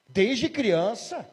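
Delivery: slow, rising disbelief on "Desde criança?"; astonished question. Retold or imitated. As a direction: stretch it out in shock. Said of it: "o pastor perguntou". (pergunta lenta e espantada)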